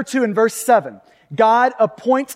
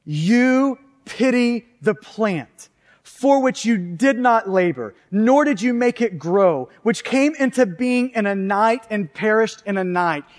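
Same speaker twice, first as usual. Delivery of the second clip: God speaking. Acted. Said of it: "And the Lord said".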